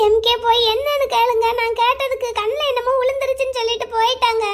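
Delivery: upset, tearful plea; tearful pleading. Acted. Girl begs him to check on her sister, tearful. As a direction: beg him to go and ask. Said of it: "நீ அழுதுட்டு இருக்க".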